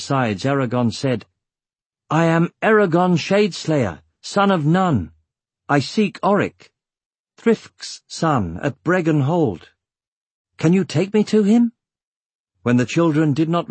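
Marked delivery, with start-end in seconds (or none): 2.1-11.7 calling out. Acted. Announcing himself to children.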